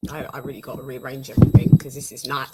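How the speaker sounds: talking while chewing gum; words round a piece of gum. Real, not acted. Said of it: "Maybe I shouldn't have gum in my mouth".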